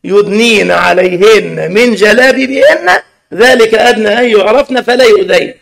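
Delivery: slow, drawn-out chant of the verse; Quranic recitation. Retold or imitated. Preacher finishing the verse for the girl, slow recitation. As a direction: recite the verse slowly and solemnly. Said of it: "كملي الآية".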